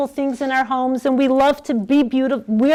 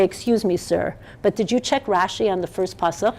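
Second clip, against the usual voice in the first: softer, politely deferential question; mock polite; 4 dB quieter than usual. Speaker imagines addressing the UN, mock polite and soft. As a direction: ask the UN official meekly. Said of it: "go into the U N today and say".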